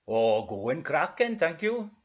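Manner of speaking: slow, lilting mock-Welsh; badly faked Welsh character voice; bad Welsh accent. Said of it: "are you Welsh or Pakistani".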